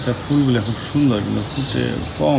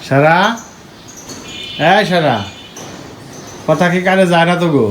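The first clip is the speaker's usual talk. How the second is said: calling out; 5 semitones higher than usual. Real, not acted. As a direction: call them awake, raised and high. Mother calling sleeping kids awake.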